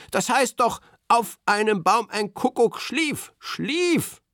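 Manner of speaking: high, sure of himself, lightly voiced; Berti voice. A narrator's reading. Berti wrongly corrects the lyrics, confident. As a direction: insist on the wrong word schlief.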